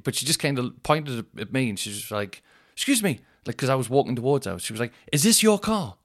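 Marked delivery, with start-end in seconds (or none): 2.7-3.2 high mock fussy old woman voice; mock old lady. 5.1-6.0 high mock fussy old woman voice; mock old lady.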